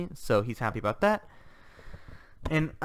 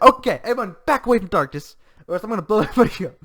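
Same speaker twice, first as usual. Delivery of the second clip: Megumin; 8 semitones higher, 8 dB louder, faster than usual. Retold or imitated. Acts out Megumin's threat.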